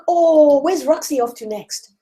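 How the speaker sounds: high, bright eager fan voice; mock-thrilled reader, pitched high. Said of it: "And they'll be like".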